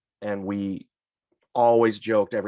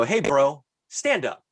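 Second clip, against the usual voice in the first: annoyed customer; 3 semitones higher than usual. Retold or imitated. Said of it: "I wanna go".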